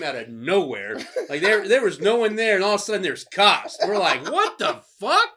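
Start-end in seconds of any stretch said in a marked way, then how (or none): 4.3-5.3 high, slow shocked exclamation; startled. Retold or imitated. Cops appearing out of nowhere, slow high startled outburst. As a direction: drag out the shock.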